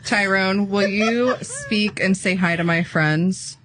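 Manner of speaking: slow, deliberate voice command; coaxing the AI. Real, not acted. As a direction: ask the assistant slowly, word by word. Addressing her AI before listeners.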